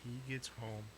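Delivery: slow, drawn-out threat; ominous mock warning. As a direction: draw it out like mom's warning. Mom's warning acted out.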